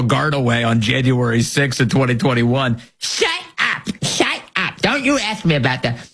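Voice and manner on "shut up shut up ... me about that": much higher, shrieking parody of Pelosi; mocking high Pelosi shriek; Nancy Pelosi impression. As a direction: screech it like a flustered Pelosi cut off by a question. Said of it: "Nancy Pelosi's version of that".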